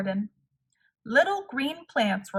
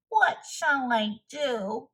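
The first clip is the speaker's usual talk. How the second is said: cried out; 3 semitones higher, slower than usual. Acted. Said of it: "cried Toad".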